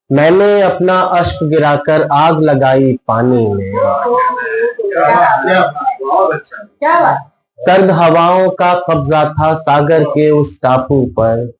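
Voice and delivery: measured mushaira-style verse reading; ghazal recitation. Acted. Poet presents a ghazal to a listening audience, measured recitation. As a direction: recite each line in rhythmic, sustained phrases.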